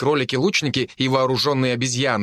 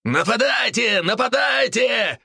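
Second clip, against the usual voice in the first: higher, slow chanting battle shout; beastmen yelling; 11 semitones higher, slower than usual. A narrator's reading. Beastmen taunting the demons, shouting. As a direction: yell it as a roaring horde. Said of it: "голосили зверолюди".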